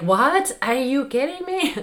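high, loud disbelieving cry of frustration; exasperated outburst. Retold or imitated. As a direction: throw it out like you just stepped on the avocado. Acting out a frustrating mishap.

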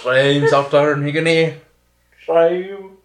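loud, hammed-up Welsh accent; mock Welsh accent. Echoing a friend's half Scottish attempt, exaggerated mock Welsh accent. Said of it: "attempt at a Welsh accent".

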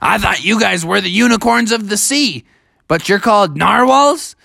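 a hint of baffled young hero; puzzled Bubby. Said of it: "And he said".

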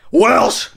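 "Welsh" blurted as a mock sneeze. Shown as a demonstration. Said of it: "you sound like you sneezed".

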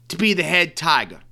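lightly put-on Southern accent; Brian Kelly southern accent. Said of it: "I'm doing the Brian Kelly".

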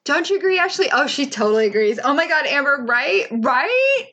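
mock-eager agreement with imaginary guests; pretend co-host chat. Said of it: "I'll be like".

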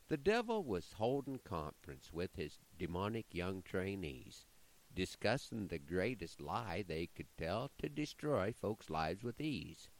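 measured, rhythmic poem reading; poem recitation. Acted. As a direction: recite it like a cowboy poet.

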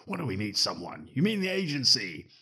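a light imitation of a geeky blurter; geek guy impression. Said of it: "the geek guy".

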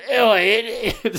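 high, slow, stretched Cockney Oi; slow mock Cockney. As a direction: drawl it out like a London geezer. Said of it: "with a British accent".

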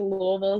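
Louisville said "LOO-ee-vil", with a clear ee; outsider pronunciation. Retold or imitated. Rower quoting a freshman teammate, Louisville as "LOO-ee-vil". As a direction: give Louisville its full middle ee. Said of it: "saying it as Louisville".

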